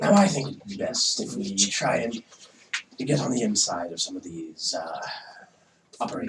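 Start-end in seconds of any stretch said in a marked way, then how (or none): 3.0-6.3 lightly voiced goofy character. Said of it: "that goofy ass voice".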